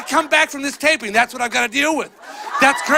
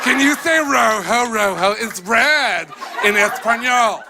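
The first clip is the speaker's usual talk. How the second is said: mock Spanish teacher; 2 semitones higher, slower than usual. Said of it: "it's teaching our kids that red in Spanish is rojo".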